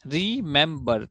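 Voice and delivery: रिमेंबर in three slow, separate beats; syllable by syllable. Shown as a demonstration. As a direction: count out रिमेंबर as रि, मेम, बर. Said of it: "तीन है". (रिमेंबर को रि, मेम, बर में तोड़कर)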